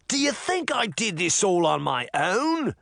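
high, agitated outburst; ranting. A narrator's reading. Jack taunting everyone as he is taken, ranting. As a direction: rant it like a man unhinged. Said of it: "he ranted".

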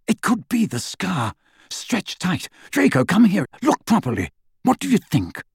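high, eager, rising voice; pressing his son with barely held excitement; excited Lucius. A narrator's reading. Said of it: "beside himself with excitement".

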